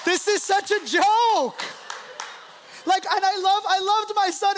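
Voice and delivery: high, drawn-out disbelief; slow, hammed-up astonishment; mock incredulity. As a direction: scoff in amazement as an imagined God. Voices God's incredulous reaction.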